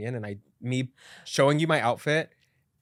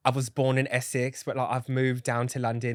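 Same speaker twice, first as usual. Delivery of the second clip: put-on British accent. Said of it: "talking a British accent".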